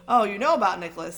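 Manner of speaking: pleased to be caught out; delighted. Acted. Dumbledore to Harry, mildly delighted. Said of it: "sounding quite delighted".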